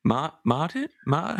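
"Martin" tried haltingly with a Minnesotan R; attempted hard R. Host trying the actor's correction, tentative R in "Martin". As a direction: test the R in "Martin", unsure. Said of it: "you'd hit the R's more".

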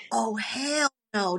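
slow, whispered "Oh, hell no" in disbelief; whispered fury, drawn out; hushed furious oh hell no. Retold or imitated. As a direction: breathe it out slowly like a man who just got bad news. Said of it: "he's just losing his shit".

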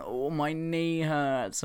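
slow, drawn-out mock whine; whiny little boy. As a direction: imitate a kid milking a sore knee. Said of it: "he hobbles around going".

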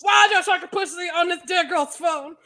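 lightly put-on actress voice, indignant demand; Viola. Podcaster scolding about a Sharktopus on a phone, lightly imitated actress. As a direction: demand it in a mock-dramatic celebrity imitation. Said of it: "that's my Viola voice".

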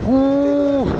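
shivering ooh. Real, not acted. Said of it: "my hands are freezing".

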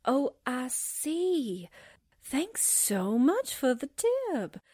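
slow, dry mock gratitude; secretary answering a teasing delivery man, slow sarcasm; sarcastic thanks. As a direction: drag it out to mock him. Secretary teased about pencils.

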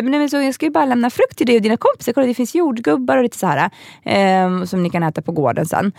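put-on lightly sing-song mum voice to children; talking to kids. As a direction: speak like a mum cheering up toddlers. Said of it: "och så sa jag så här".

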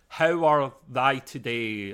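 slow, mildly mock-posh old English. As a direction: imitate posh olden-days English, drawn out. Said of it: "say it slowly and very posh and professional".

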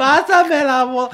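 high, stretched-out mock plea; retold calling out. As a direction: sing out the request slowly, high-pitched. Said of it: "Y le grité". (grito agudo y alargado de súplica fingida)

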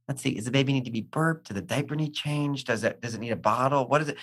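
soft, gentle caretaker murmur; soothing a baby. Retold or imitated. Parent checking on a crying baby, soft and gentle. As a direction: hush it like calming a crying baby.

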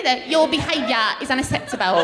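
lightly put-on British nanny accent; Super Nanny. Comic demonstrating the super nanny's catchphrase, British accent. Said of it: "do you remember the super nanny".

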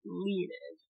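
"Leonid" said as in the audiobook; correct pronunciation. Shown as a demonstration. Co-host correcting a name from the audiobook, "Leonid" pronounced carefully. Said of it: "so I get correct Tucker's pronunciation".

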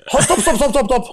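angry shout. Retold or imitated. Chief photographer halting the whole shoot, angry shout. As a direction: yell at the whole crew to stop the take.

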